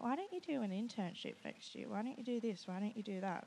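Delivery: lightly voiced nagging friend; a hint of mimicked pestering; put-on advice-giver voice. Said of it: "who the voice is that you, um, pretended to be".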